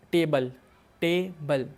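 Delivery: टेबल said loud and clear, split into two beats as ते-बल; syllable demo. Shown as a demonstration. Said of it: "दो बार sound निकल रहा है ना मेरा टेबल".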